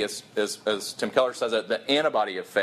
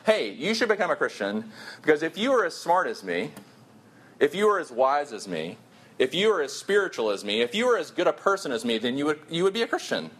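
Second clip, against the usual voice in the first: smug preacher; 3 semitones higher than usual. Retold or imitated. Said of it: "it sounds like this".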